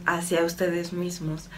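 calm, slightly softened meditative delivery; channeled message. Acted. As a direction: deliver it evenly, as an unhurried spiritual message. (mensaje canalizado, en tono sereno y pausado)

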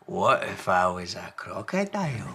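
put-on playful child voice; Small, cheeky little one. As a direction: tease with a silly question. Small teases Large.

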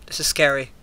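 ordinary delivery

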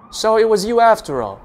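loud, high scornful bellow. A narrator's reading. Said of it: "the officer bellows scornfully".

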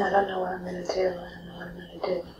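quick, hushed, half-breathed repetition of helpless grief; a hint of a grieving mother, whispered; whispered mother's despair. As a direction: echo a mother's frantic whisper. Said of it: "She keeps saying".

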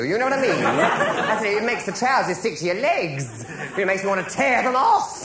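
high, slow and put-upon, rising to a yelp; hammed-up camp outrage; camp indignation. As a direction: fuss about the stools like a prima donna. Comic camp complaint to producer.

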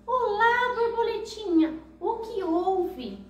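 high, gentle snail voice that slows at the end; a caring little snail asking what happened; kind snail. Acted. Snail greets the crying butterfly, high and gentle. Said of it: "e foi perguntar".

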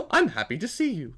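mock-happy character greeting; happy boy. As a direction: play a cheerful robot lightly. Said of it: "just a fucking happy fucking boy".

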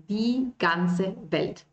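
Die ganze Welt said slowly and clearly; slow model. Shown as a demonstration. Teacher to students, slow and clear.

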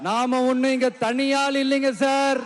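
slow, rousing proclamation to the crowd; defiant shout. Real, not acted. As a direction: shout it out like a rally cry. Rally speech, rising defiant declarations.

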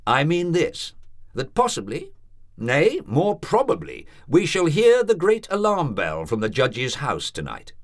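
grave, measured warning; ominous doctor. A narrator's reading. Doctor warning the landlady of the alarm bell, ominous.

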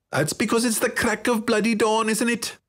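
put-on high, nasal boy's retort; shot back. A narrator's reading. Late boy retorting to his friend, irritable. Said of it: "Yalaric shot back".

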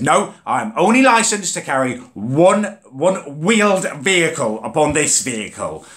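a fussy official reading out rules; mock bus driver voice.

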